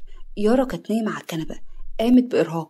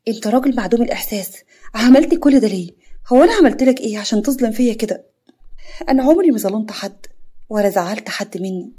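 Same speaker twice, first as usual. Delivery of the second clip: louder, wounded protest; loud outburst; 3 dB louder than usual. Acted. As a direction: shout her hurt at him. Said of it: "ونطقت بصوت عالي".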